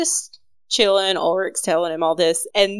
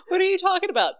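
put-on high innocent German accent; 12 semitones higher, 3 dB quieter, much faster than usual. Ulrich playing dumb to Beck, a high German accent. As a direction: feign confusion in a German accent. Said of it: "His little German accent".

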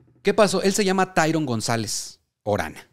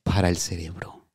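mock inspirational; 3 semitones lower than usual. Mock inspirational dream message.

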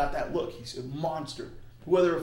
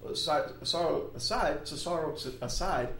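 tongue-tied; 2 semitones higher than usual. Real, not acted. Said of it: "There's a tongue twister for you".

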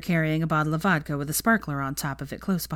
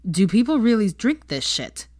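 incredulous; 5 semitones higher, 3 dB louder than usual. A narrator's reading. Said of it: "asked Blaise incredulously".

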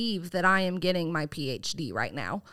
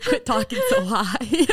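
much higher, louder teasing squeak; teasing a coworker in a squeaky mock voice; 9 semitones higher, 6 dB louder, slower than usual. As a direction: parody the high server voice. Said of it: "I'm like".

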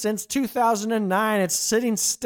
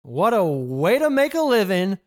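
grand quote. Retold or imitated. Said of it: "In the immortal words of a national treasure of a singer".

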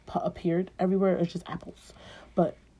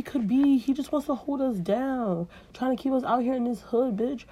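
higher, preachy sass; high-pitched hype Eve; sassy Eve; 5 semitones higher than usual. Acted. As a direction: persuade Adam with attitude. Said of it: "she's like".

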